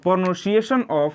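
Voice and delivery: word stretched syllable by syllable; slow teacher dictation of a heading. Shown as a demonstration. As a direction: say it slowly for students to copy down. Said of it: "एएन का उच्चारण".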